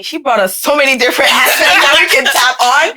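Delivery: a laugh breaking into the words; talking through a laugh. Real, not acted. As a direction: chuckle through the praise. Laughing while praising guest.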